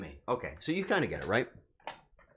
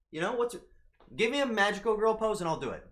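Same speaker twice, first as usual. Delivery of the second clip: ordinary talk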